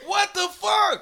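high-pitched outraged cry; incredulous, voice leaping up; exasperated outburst. Real, not acted. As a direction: cry it out in disbelief. Outraged that killers are still free.

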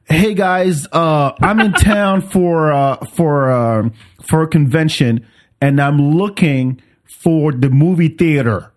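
a lightly exaggerated American tourist accent; strong American accent. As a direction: play up an American accent, stretching the words. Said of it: "I put on my strongest, like, American".

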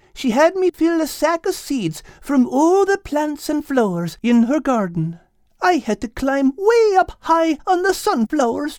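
put-on Irish accent. Al explaining his night's work, Irish accent. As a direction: explain wearily with a brogue.

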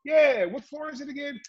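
casual reply. Retold or imitated. His own reply to guards.

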